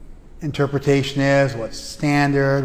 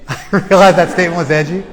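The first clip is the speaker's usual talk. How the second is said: laughing it off, a bit louder; 3 semitones higher, 6 dB louder than usual. Real, not acted. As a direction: own up to it through a real laugh. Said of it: "I'm having fun".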